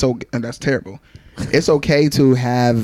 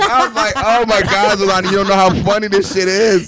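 excited; 6 semitones higher than usual. Real, not acted. Retelling while still laughing.

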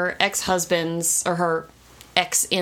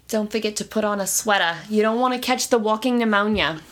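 put-on New York housewife accent. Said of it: "New York Jewish housewife accent".

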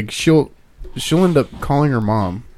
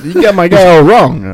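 put-on character voice; 6 semitones higher, 8 dB louder than usual. Walken-style put-on.

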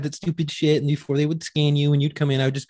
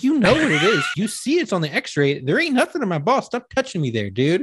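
higher and louder, half laughing; loudly telling the screener off in mock outrage; loud retold complaint; 6 semitones higher than usual. Telling TSA to stop groping him, loud and laughing. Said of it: "Like, I'm, I get loud".

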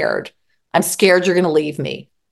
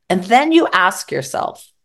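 ordinary delivery

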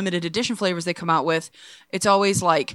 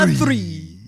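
rolled R, owl in the ad; imitating the Tootsie Pop owl; hissing feral vampire; 4 semitones lower than usual. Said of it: "Why do you sound like a vampire?".

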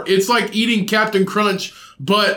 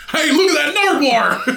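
high, laughing storybook wonder; high laughing fantasy-film exclaim; mock Fantastic Beasts character; 9 semitones higher than usual. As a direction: squeal it like a delighted wizard spotting a beast. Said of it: "sounds like something from Fantastic Beasts".

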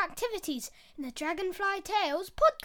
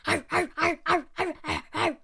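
lion yelping; 4 dB louder, faster than usual. Acted. Lion bites air, hurt.

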